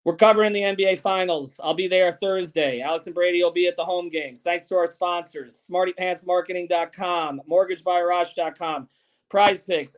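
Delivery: steady, measured show-closing plugs; podcast outro announcement; sign-off sponsor read. Real, not acted.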